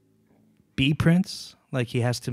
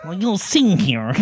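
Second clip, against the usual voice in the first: higher, slow, drawn-out rock singer wail; a rock singer; 5 semitones higher, slower than usual. Retold or imitated. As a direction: imitate a rock singer's whine, stretched out. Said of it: "Axl Rose does".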